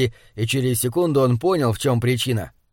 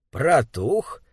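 insinuating question. Acted. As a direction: ask slyly, with a rising tune. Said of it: "вкрадчиво спросил Боб Дженкинс". (вкрадчивый вопрос)

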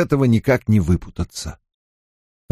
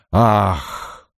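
crowd's gasp; 3 semitones lower than usual. A narrator's reading. Onlookers gasp as flames burst through roof, hushed. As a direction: let out an understated gasp of a crowd. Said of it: "над толпой прокатилось громкое".

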